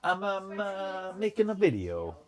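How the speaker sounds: hammed-up Italian accent impression; mock Italian accent. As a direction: send up a friend's Italian accent. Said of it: "I can do your accent, Carlos".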